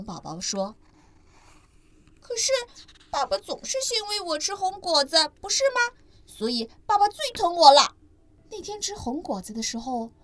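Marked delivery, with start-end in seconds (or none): 2.2-8.0 put-on much higher child voice, teasing; boastful little ankylosaur; smug baby dinosaur. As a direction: prove you're the favourite. Ni boasting again.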